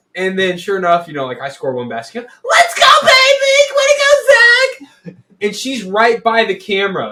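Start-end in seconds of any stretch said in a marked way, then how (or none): 2.5-5.2 very loud, shrill, high, drawn-out scream. Retelling a game video where mom cheers at a basket: imitating mom screaming. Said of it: "she's screaming at me".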